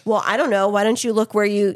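lightly acted defensiveness; defensive retort. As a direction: answer back as if mildly accused. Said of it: "on the defensive automatically".

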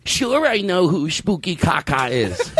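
lightly voiced slow smug comic; Blake Wexler impression. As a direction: drawl it like a know-it-all comic. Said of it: "That's a good Blake Wexler".

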